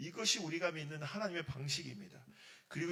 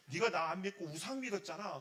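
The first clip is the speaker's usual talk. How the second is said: mild mock scolding; angry rebuke; 2 semitones higher, 4 dB louder than usual. Preacher voices God blaming idol worship, mild angry rebuke. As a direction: accuse as an imagined angry God. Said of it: "뭐 화를 냈을 텐데".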